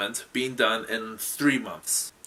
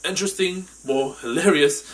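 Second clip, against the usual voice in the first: projected, slightly raised explainer voice; show host presenter; 3 semitones higher, 6 dB louder than usual. Acted. Host explaining the game to viewers, projected presenter voice. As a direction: present the rules with punch.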